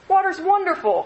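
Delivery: high, loud delighted cry. A narrator's reading. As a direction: call out your joy at the water. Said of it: "cried Freddie".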